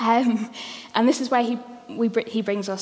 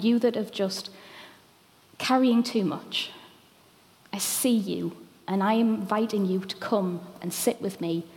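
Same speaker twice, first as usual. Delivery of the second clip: tender reassurance. Retold or imitated. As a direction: reassure the tired gently, let rest fall away. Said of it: "He says".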